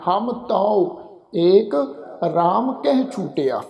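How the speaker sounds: slow verse reading with ਤਉ said "tau"; kanaura vowel. Shown as a demonstration. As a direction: recite slowly, ਤਉ ending in open "au". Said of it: "ਤੱਤੇ ਉੱਪਰ ਕਨੌੜੇ ਦੀ ਮਾਤਰਾ ਲਗਾ ਕੇ".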